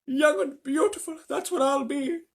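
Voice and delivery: put-on high, loud, slow old woman's shout; old woman shouting with joy. A narrator's reading. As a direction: shout it with giddy hope. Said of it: "shouted Grandma Josephine".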